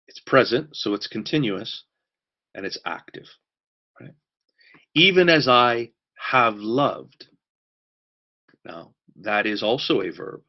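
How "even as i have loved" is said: slow solemn reading. Acted. Reading scripture slowly for weight.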